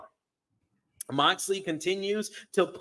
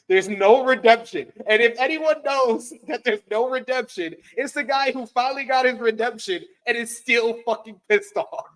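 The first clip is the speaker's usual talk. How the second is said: worked up; 6 semitones higher, 3 dB louder than usual. Retold or imitated. Mocking Hangman's anger.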